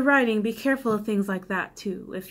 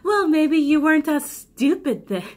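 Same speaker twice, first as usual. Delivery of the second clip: cold snap; 6 semitones higher, 5 dB louder than usual. A narrator's reading. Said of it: "Lenore snapped cold-heartedly".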